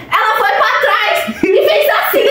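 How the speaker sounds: slow, laughing exclamation; laughing shout. Real, not acted. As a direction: shout it slowly while laughing. Retelling the fall, cracking up. (gritando devagar de tanto rir)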